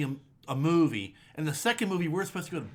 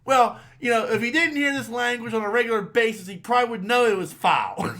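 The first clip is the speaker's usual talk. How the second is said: raised-voice phone scolding, imitated; overheard indignant grandmother; 5 semitones higher, 4 dB louder than usual. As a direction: retort like a grandmother telling off a parent. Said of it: "I can hear".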